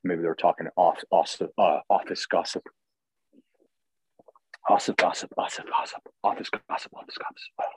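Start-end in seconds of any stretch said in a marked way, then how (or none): 4.7-7.7 tongue twister. Shown as a demonstration. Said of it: "Say it that three times fast".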